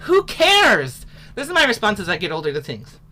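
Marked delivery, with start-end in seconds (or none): 0.0-1.1 much higher, louder toss-off; who cares. Real, not acted. Teacher shrugging off the neighbors, high and loud. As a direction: brush it off with gusto. Defiant exclamation.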